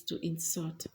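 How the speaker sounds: to in-SULT, "insult" stressed on its last syllable; stress on second syllable. Shown as a demonstration. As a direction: say "insult" as a verb, end stressed. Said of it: "the stress is falling on the second syllable".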